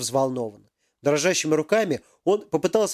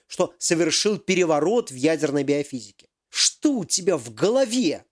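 higher, hammed-up indignant professor; angry professor; 3 semitones higher than usual. Professor confronts Yaroslav over the missing device, indignant. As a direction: demand answers like a cheated boss.

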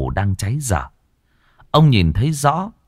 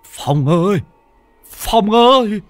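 stammering, climbing much higher and louder in panic; old man stuck in the pond, panicked stammer; terrified stammer; 4 dB louder than usual. Acted. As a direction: stutter for help, voice rising into a shriek. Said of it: "ông lắp bắp".

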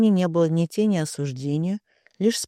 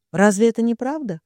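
a touch of a bitter, tearful question, pitched higher and louder; bitter sob; 5 semitones higher, 4 dB louder than usual. A narrator's reading. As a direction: ask it through mild tears. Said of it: "горько всхлипнула Карина".

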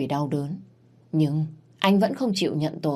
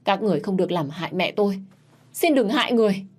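rising to a higher, louder cry for mercy; desperate pleading; 4 semitones higher, 3 dB louder, faster than usual. Acted. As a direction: beg them to spare his mother. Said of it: "để van xin". (van xin tuyệt vọng, giọng cao dần)

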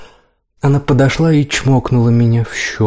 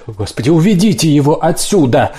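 a sharp, higher bark; barked order; 5 semitones higher than usual. A narrator's reading. Mother barking at the nurse to take him away. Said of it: "рявкнула Кэтрин Роуз".

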